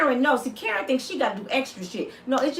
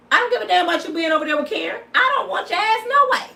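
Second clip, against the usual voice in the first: scornful; 7 semitones higher, 4 dB louder, faster than usual. Real, not acted. Mocking dismissal of man.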